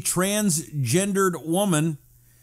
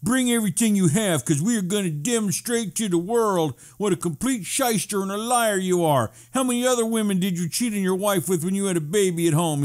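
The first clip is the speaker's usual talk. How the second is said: mock lawyer quote. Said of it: "The, uh, third-rate lawyer said".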